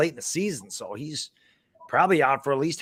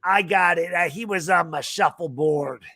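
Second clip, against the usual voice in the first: put-on Boston accent. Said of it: "In his Boston accent".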